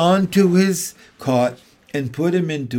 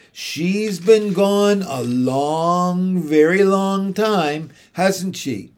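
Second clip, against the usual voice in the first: slow, drawn-out worried question, a little higher; uneasy; 4 semitones higher, 4 dB louder, much slower than usual. Acted. Michael asking his sister, uneasy and slow. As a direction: let the worry stretch the words out. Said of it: "Michael said uneasily".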